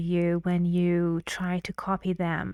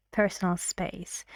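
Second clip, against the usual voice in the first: "Personal space" with the voice falling on "space"; falling intonation; 5 dB quieter than usual. Shown as a demonstration. Teacher modelling a command for students, falling tone. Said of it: "falling intonation".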